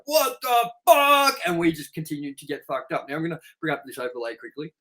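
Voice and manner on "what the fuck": high, slow, drawn-out shocked "what the fuck"; stunned disbelief. Retold or imitated. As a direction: play the friend, floored and baffled. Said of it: "he was like".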